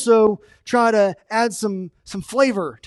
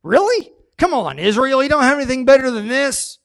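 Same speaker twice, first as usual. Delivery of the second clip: lightly voiced scornful giant, rising higher; mocking Goliath; 5 semitones higher, faster than usual. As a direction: scoff at the boy sent out. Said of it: "He was like".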